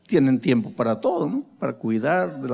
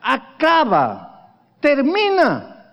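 exhortación; 8 semitones higher, 4 dB louder, much slower than usual. Acted.

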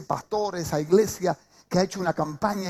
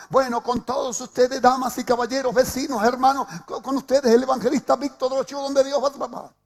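hyping announcer; 5 semitones higher, 3 dB louder than usual. Retold or imitated. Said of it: "el pastor estaba arengando como si fuera una multitud".

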